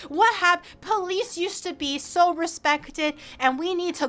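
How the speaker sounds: mock preachy old-timer rant; lightly voiced old man moralizing; a hint of a lecturing elder. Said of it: "he just kept on fucking yapping".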